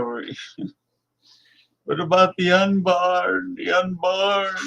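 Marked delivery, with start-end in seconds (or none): 1.8-4.5 high laughing mock plea; giggling mock plea for the unborn; mocking old zealot. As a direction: imitate the old right-wing Catholic through a laugh. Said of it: "what the old right-wing Catholic did".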